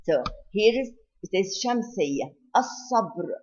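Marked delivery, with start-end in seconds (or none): 2.6-3.3 الصبر with no L, doubled S; silent lam. Shown as a demonstration. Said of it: "we do not pronounce the lam of الصبر".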